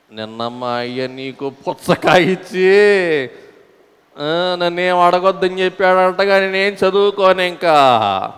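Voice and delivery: put-on cheeky boy. Boy's cheeky reply in mimicry.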